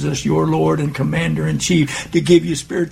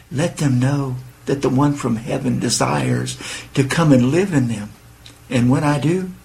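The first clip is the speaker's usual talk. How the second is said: a hint of a lower, tender Jesus voice; lightly voiced Jesus; 3 semitones lower than usual. Jesus speaking to the meditating listener, lightly lowered and tender.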